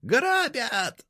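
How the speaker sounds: very high, loud cry; piercing alarm yell; screaming robbery. A narrator's reading. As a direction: shriek for the neighbours. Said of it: "заорала она".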